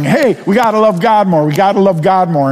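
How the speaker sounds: a lightly voiced over-eager pep call; mock rallying cry. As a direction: hammer it like a rousing slogan. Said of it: "I don't want to begin by emphasizing".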